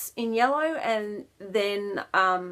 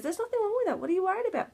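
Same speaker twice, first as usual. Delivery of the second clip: imitating everybody else; 11 semitones higher, faster than usual. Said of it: "Everybody else looks at it and goes".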